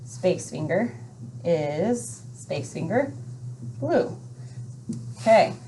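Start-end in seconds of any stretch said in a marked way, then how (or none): 0.0-4.2 spacing demo. Shown as a demonstration. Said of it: "So then we go".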